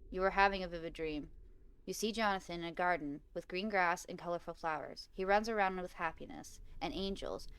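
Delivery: story narration. A narrator's reading. Player reading a dream of lost son, calm story narration. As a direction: narrate the dream calmly, phrase by phrase. Reads game story aloud.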